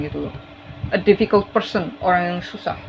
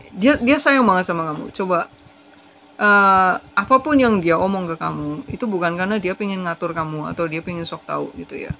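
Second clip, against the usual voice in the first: usual speaking voice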